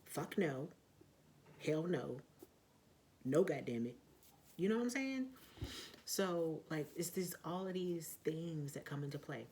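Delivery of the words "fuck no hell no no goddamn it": firm refusal. Retold or imitated.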